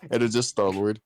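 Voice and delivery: laughing through the words. Real, not acted. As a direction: giggle while saying it. Laughing repeating the joke.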